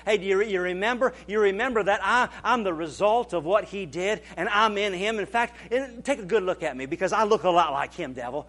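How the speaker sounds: a preacher taunting the devil, mildly mocking. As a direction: rub it in the devil's face. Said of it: "all we have to do is just remind".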